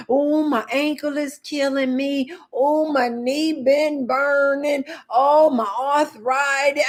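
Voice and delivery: slow, whiny imitation of an old person listing aches; lightly mock a grumbling old person; mock old complainer. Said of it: "They talk so old".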